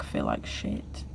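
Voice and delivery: low, slow and quiet glum admission; glum low mutter. Real, not acted. Vlogger venting about her life, glum low mutter. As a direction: let it sink right down, dragged and soft.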